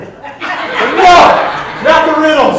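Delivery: high, loud comic wail of protest; mock dread. Preacher playing victims threatened with riddles, loud mock dread. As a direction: cry out in exaggerated horror.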